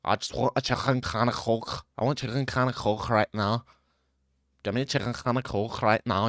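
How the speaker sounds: put-on throaty British accent with scraped k sounds; mock British regional accent. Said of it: "Or you got".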